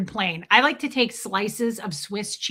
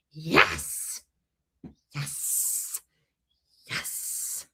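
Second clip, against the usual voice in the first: fading yes; 7 semitones lower, 7 dB quieter, much slower than usual. Pretend. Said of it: "I'm gonna be like".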